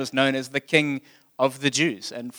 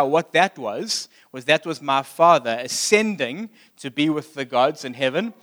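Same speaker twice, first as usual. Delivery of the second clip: proud emperor. Retold or imitated. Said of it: "is something that Caesar Augustus proclaimed".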